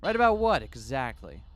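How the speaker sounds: sharp suspicious challenge; defiant gang leader; challenging. Acted. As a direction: demand it, voice jumping up. Susumu challenges the reporter.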